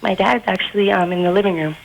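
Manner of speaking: put-on boy faking a young girl's voice. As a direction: pass yourself off as a teenage girl. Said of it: "do the chick voice again".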